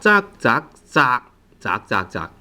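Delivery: "Za" and "窄" with the final K left unreleased, no K heard; no K sound. Shown as a demonstration. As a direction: cut "Za, za, za. 窄窄窄" short with a silent K at the end. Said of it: "without the K sound".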